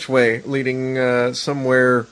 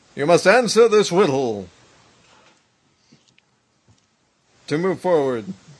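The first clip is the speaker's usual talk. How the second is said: dramatic, theatrical, echoing, disembodied voice, higher; 4 semitones higher than usual. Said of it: "this voice has a sense of drama to it".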